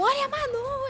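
very high, loud yell. Retelling what a man in a red bus shouted while honking: retelling a shout. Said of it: "buzinando e gritando".

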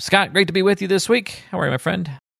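thrilled, super-excited, very high voice. Greeting scott at the start of this week's show, super excited. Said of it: "you sound super excited today".

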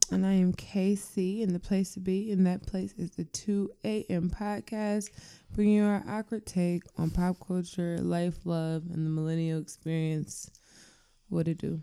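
flat, sleepy voice with no energy or inflection. Introducing the podcast while being forced to record, no energy or inflection. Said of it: "why I have no energy or inflection".

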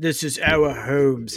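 put-on very thick Australian accent, slow and drawn out. Mocking Chris Hemsworth's speech in the Red Dawn remake, in a thick Chris Hemsworth Australian accent. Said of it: "in his very thick Australian accent".

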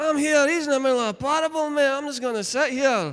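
put-on Glaswegian accent, loud and high. Retelling a bible story, voicing a sister sitting at his feet in a glaswegian accent. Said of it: "Sounds better than a Glaswegian accent".

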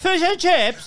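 put-on British accent, pitched very high and loud. Dared by a friend to interview in a British accent, a put-on British accent. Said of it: "Danny's going to do the fish and chips".

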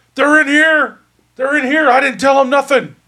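very high shouting outburst, yelling. Narrating a game scene, the speaker voices the character as he starts yelling: Bloody Brack Grogan yelling. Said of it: "So he starts yelling".

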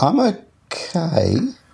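unsure, tentative, slightly high voice. A podcast co-host, asked by the host how he is, answers hesitantly. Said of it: "You sounded hesitant".

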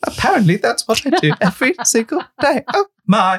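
high mechanical robot voice. Take your turn doing impressions for someone who names the characters, in a C-3PO voice. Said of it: "this one is C-3PO".

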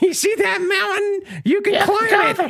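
put-on voice, pushed very high in pitch. Quoting Todd Howard's line, done in a Toad voice. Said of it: "Toad voice".

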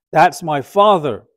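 loud, slow scream at the top of the lungs.

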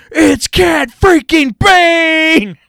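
shrill, slow, very loud, high, drawn-out scream. Recalling the moment he recognized someone, retelling a scream. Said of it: "and I screamed".

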